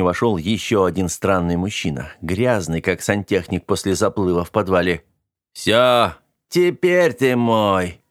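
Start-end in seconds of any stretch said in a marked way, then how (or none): 5.5-8.0 slow, louder villain cry; triumphant shout. A narrator's reading. Dirt agent bursting in at the boy, slow loud gloating shout. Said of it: "выкрикнул он".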